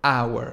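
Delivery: "hour" said as our, no h; "hour" begins straight on the vowel; silent h. Shown as a demonstration. Teacher isolates the word for students, silent h. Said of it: "On entend A".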